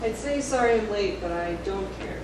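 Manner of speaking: sarcastic. Acted. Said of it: "be sarcastic".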